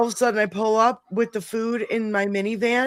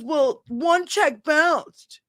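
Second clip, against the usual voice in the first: mocking sister; 6 semitones higher, much slower than usual. Sister's excuse, voiced mockingly.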